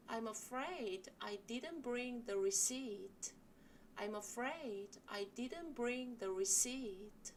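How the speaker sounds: slow, with weight on "afraid" and "didn't bring"; slow stressed sentence. Shown as a demonstration. Teacher leads the class through the polite apology. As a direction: stress the key words slowly for repetition. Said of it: "같이 한번 연습해 보실게요".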